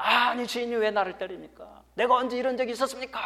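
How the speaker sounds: high-pitched protesting donkey voice; talking donkey. Retold or imitated. Donkey protests to its master Balaam, high indignant voice. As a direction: plead up high like the wronged donkey. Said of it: "나귀가 주인에게 막 말을 합니다".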